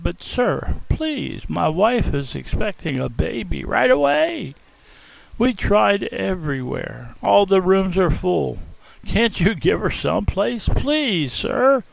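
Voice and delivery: gentle, patient pleading; patient kind plea. Acted. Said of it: "patiently and kindly he responded".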